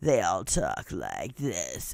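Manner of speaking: very low, soft, creaky vocal fry. Complaining about women who talk with vocal fry, imitating vocal fry. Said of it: "women talking with vocal fry".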